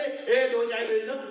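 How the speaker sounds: slow drawn-out shopkeeper call to the tea stall. Shown as a demonstration. Shopkeeper calling the tea boy, slow drawn-out call. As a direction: stretch it out like calling across the street for tea. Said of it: "यहीं से आवाज लगा दे".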